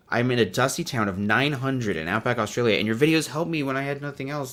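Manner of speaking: sincere reading in your own accent. Shown as a demonstration. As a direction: read the message straight and heartfelt, without the cartoon voice. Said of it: "I'm gonna read that again, sincerely".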